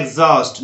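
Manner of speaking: "एग्जॉस्ट" with a gz sound and silent h; correct pronunciation. Shown as a demonstration. English teacher modelling the silent h, correct pronunciation. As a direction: say "एग्जॉस्ट" as egz-aust, no h. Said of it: "तो इसको बोलना है".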